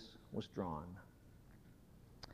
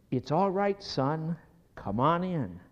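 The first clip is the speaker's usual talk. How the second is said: father calling encouragingly; 5 semitones higher, 7 dB louder than usual. Retold or imitated. Father calls from pool.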